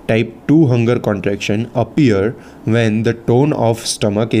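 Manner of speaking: slow, measured reading of notes; slow textbook read-out. Real, not acted. Teacher reading physiology notes to students, slow and measured. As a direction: read it out slowly, phrase by phrase. Reads lesson text aloud slowly.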